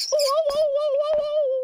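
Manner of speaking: high, loud parrot whoas; imitating parrot. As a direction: squawk it like the parrot does. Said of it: "And he's going".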